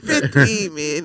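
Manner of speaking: slow mimicry of a mock Asian accent; imitating his mock accent. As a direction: mimic the hammed-up Asian accent slowly, amused. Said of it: "Why you keep saying fifteen minutes like that?".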